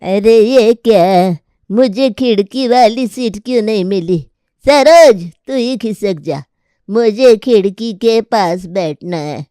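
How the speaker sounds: put-on a cranky old mother scolding her son; scolding old grandmother. Grandmother scolding her forgetful son, lightly voiced.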